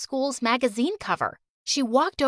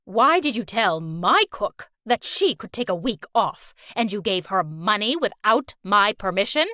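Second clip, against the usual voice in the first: scolding grandma; 3 semitones lower than usual. Acted. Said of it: "shouting at Amelia".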